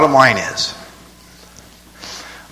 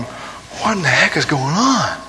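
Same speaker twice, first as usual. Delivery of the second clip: lightly voiced confused reader; 3 semitones higher than usual. Preacher mimics confused Bible reader, lightly puzzled. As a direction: puzzle over Acts aloud.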